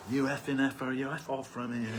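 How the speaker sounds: put-on laughing replay in an Indian accent. Retelling the priest's curse, amused Indian accent. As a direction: repeat the curse in a mock Indian accent, chuckling. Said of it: "He said it with an accent".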